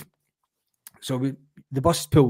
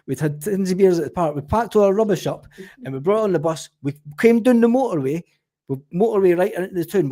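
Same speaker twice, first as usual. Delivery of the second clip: higher, eager, rattling off the excuse; fast-talking alibi; 6 semitones higher than usual. Retold or imitated. Bus convener spinning a story to a copper, high innocent patter. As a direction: sell the cover story with wide-eyed innocence.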